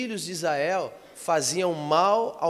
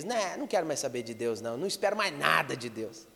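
low-key, softer grumble; sulky dismissal; 4 semitones lower, 5 dB quieter than usual. Retold or imitated. Preacher imitating someone who blames God, sulkily dismissive. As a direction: shrug it off in a quiet imitation.

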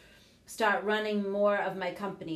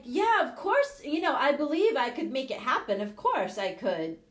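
mock confident; 5 semitones higher, 3 dB louder than usual. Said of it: "I'm like".

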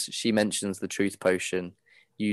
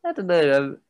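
put-on flustered boy. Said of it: "he goes".

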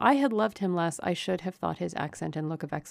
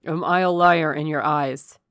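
louder, passionate challenge; an impassioned, wounded demand; 9 dB louder than usual. A narrator's reading. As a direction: press the question with ardor. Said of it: "he asked passionately".

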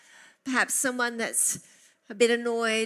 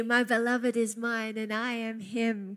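ordinary talk, nothing marked

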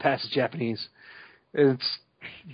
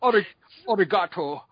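Sean Connery; 4 semitones higher than usual. Retold or imitated. Host mocks actor's attempted Japanese, Scottish-accented Japanese. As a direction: drag out Japanese with a Scottish slur. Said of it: "Sean Connery doing a Japanese accent".

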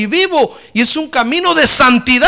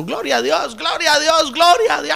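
praise shout building; 6 semitones higher than usual. Shown as a demonstration. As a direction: let the praise swell up. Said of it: "puede usted pasar una hora gritando".

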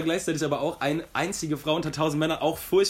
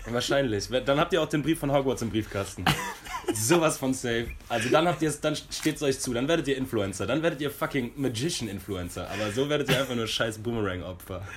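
worked-up rant; 3 dB louder than usual. Real, not acted. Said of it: "Boah, war ich sauer".

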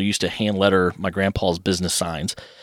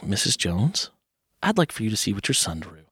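softer, grave-sounding teacher; hint quietly at bad news; ominous teacher; 5 dB quieter than usual. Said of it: "she said it in a kind of a way".

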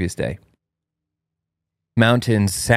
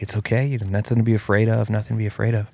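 put-on softer, reassuring words to a scared child; soothing; 3 dB quieter, faster than usual. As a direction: comfort him gently. Comforting panicked son.

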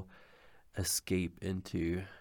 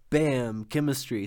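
mock triumphant reveal; 5 semitones higher, 6 dB louder than usual. Mock surprise reveal of cleverness.

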